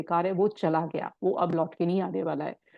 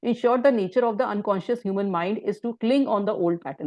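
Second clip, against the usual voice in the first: quote reading; much slower than usual. Acted. Reads book quote aloud.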